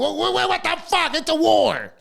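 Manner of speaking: stammering, disbelieving what-the; high incredulous stammer. Real, not acted. Incredulous outburst.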